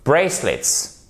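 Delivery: "Bracelets" as BRAY-slets, first syllable strong; first-syllable stress. Shown as a demonstration. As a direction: lean on the "ay" of "Bracelets", falling after. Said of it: "l'accentuation ici sur la première syllabe".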